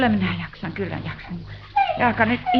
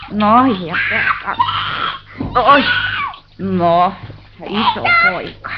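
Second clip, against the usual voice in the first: loud scolding; 3 dB louder, slower than usual. Acted. Mother bathes and scolds the boys.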